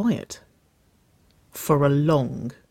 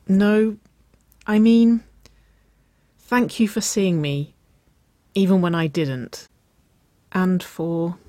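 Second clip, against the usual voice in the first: raised, earnest start that fades away; trailing off; 5 semitones higher, 5 dB louder, slower than usual. A narrator's reading. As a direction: start high and loud, then let it trail off unfinished. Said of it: "she trailed off".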